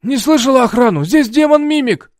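high, loud alarmed yelling; old man yells that a demon is here; panicked yell. A narrator's reading.

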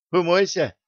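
put-on a girl's light ringing call. A narrator's reading. Girl calls out to the old man, ringing. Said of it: "прозвенел над ухом девичий голосок".

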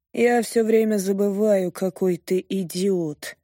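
slow, bored, drawn-out contempt. Acted. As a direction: say it as if utterly bored. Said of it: "скучающим голосом говорит мужчина".

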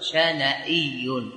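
drawn out; slow demonstration. Shown as a demonstration. Teacher giving the nisba form to students, slowly. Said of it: "فنقول".

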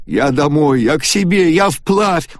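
rising to a very high shout; hysterical cry. A narrator's reading. Агата снова в истерике. (Агата в истерике рвётся домой)

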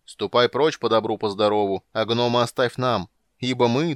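loud ghostly voice from beyond; sepulchral voice. Acted. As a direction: intone like a vengeful spirit. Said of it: "прозвучал замогильный голос".

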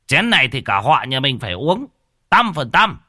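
put-on rally the young ones to drink, shouting the count; fierce drinking toast. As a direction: drunk old uncle bellowing out a toast count at the memorial feast. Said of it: "cũng hung hăng".

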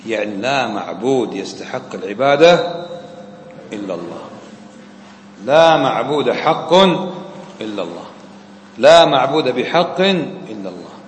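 slow, weighty, each word spaced out; teacher giving the correct meaning slowly after the wrong one; slow deliberate explanation. Shown as a demonstration. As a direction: lay out the true meaning slowly, like dictation. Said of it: "هذا معناها".

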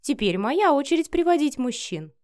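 bold, teasing challenge; provoking. A narrator's reading. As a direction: goad him into reacting. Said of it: "продолжая его провоцировать".

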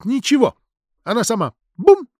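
put-on very high, girlish staccato exclamations; artistic re-enactment. A narrator's reading. Lidia shows the priest how landlady fell, theatrical. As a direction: act out the fall in little bursts. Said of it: "художественно изобразила обстоятельства падения Лидия".

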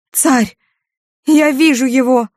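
very high, loud rapture; ecstatic cry. Acted. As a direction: shout the vision in awe. Ecstatic vision of the king. (восторженный крик, очень высоко)

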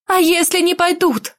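sharp angry question. Acted. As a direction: snap back, challenging. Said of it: "Метнула на него яростный взгляд". (сердито)

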